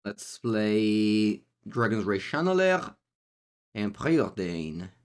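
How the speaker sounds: slow, put-on French accent; French-accented R's, unhurried. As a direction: play at a French accent, drawn out. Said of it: "I'm doing the French accent".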